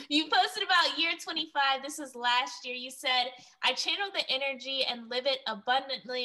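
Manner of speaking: lightly put-on news anchor read. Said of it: "put on my anchor voice".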